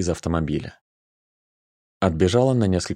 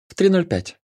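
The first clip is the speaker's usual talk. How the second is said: whispered into his neck; 12 semitones higher, 4 dB louder than usual. Acted. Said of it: "прошептала ему в шею".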